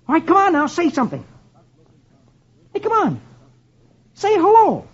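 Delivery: high-pitched urging; coaxing Dagwood. A narrator's reading. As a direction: coax a stubborn parrot to speak. Dagwood coaxes the parrot.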